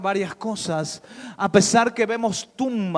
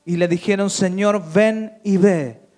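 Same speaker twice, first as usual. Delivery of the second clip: full-force preaching; 7 dB louder than usual. Acted. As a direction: proclaim it to the congregation. Predicación a plena fuerza. (predicación a todo pulmón)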